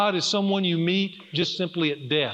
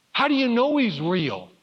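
son's question, higher-pitched, lightly imitated; doubting son; 5 semitones higher than usual. Son asking his dad how he knows, imitated doubt. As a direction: voice a child's earnest doubt, pitched up.

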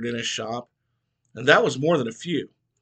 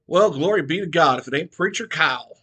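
squawk; 4 semitones higher, 5 dB louder than usual. Acted. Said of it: "Mitchell squawked".

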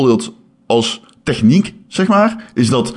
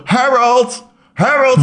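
high, hammed-up calling out for a lost friend; calling Harold; 14 semitones higher, slower than usual. Man searching town for his friend, calling high. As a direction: shout the name high across the street. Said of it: "Dan zo".

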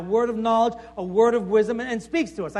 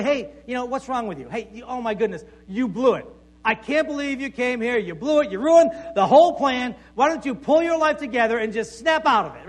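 hammed-up scolding, building louder toward the end; mock rebuke; 4 dB louder than usual. Preacher voicing the rebuke God doesn't give Elijah, mock scolding. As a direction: pretend to castigate someone who blew it. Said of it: "doesn't really rebuke him or castigate him".

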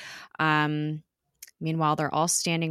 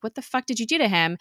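mock yell; 6 semitones higher, faster than usual. Skye turns on Quinn, mild mock yell. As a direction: imitate an angry demand, quick and raised in pitch. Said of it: "she turns around to yell at Quinn".

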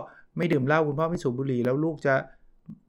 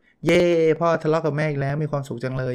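mock cheerful; 3 semitones higher, 4 dB louder than usual. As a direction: give a hammed-up "yay" as a delighted kid. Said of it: "ลูกเขาจะร่าเริงไหมครับ".

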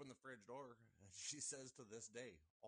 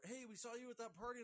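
mock coworker; 12 semitones higher, 5 dB louder than usual. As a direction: play the eager guy from camp. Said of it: "people coming up to me going".

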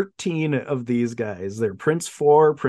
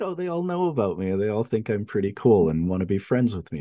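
quiet delight; 4 semitones lower, 3 dB quieter, faster than usual. Retold or imitated. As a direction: imitate someone quietly tickled to be liked. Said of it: "quietly very delighted".

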